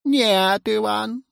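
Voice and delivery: firm, measured no; stern. A narrator's reading. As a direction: refuse like a strict head teacher. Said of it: "строго сказал завуч".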